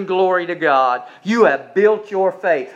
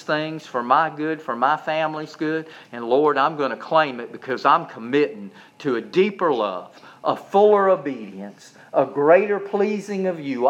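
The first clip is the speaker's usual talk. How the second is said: hushed personal prayer to the Lord; tender prayer; 3 semitones lower than usual. Shown as a demonstration. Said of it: "You can encourage yourself".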